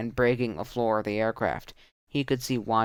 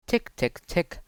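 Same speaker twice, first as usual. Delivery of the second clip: imitated bullet ticks; 6 semitones higher than usual. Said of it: "The sounds of bullets hitting the fuselage".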